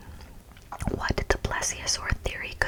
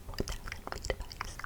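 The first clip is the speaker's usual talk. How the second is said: much softer, quicker whispered echo in awe; awed hush; 11 dB quieter, faster than usual. Real, not acted. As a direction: breathe it back to yourself in amazement. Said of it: "awed hushed repetition".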